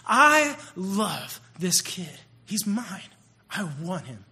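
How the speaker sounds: very slow, drawn-out tenderness; God's tender words. Retold or imitated. Preacher voicing God's love for the boy, slow and tender. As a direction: linger over every word, lovingly.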